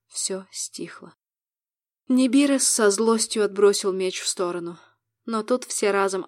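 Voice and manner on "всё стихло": whispering. A narrator's reading. Battle ends, silence falls.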